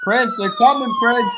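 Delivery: very high squealed warning to Prince; high-pitched mock alarm calling "Prince, they're coming"; mock warning cry. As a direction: shriek it like a panicked lookout.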